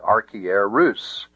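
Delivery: "archierus" with RUS stressed and rising. Shown as a demonstration. Teacher shows the correct accent, "archierus" stressed on RUS. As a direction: lean on the last syllable of "archierus", rus. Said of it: "an acute accent on the rus".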